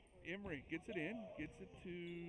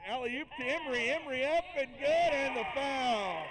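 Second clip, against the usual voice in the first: rising to a stretched, much louder yell on the foul; thrilled play-by-play shout, higher and louder; excited shout; 5 semitones higher, 8 dB louder than usual. Real, not acted. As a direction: call the and-one at full lungs, slowing right down. Alley-oop score and foul called.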